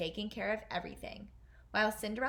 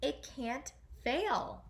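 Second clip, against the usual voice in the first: mild mock shout; 4 semitones higher, much slower than usual. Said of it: "the king shouted".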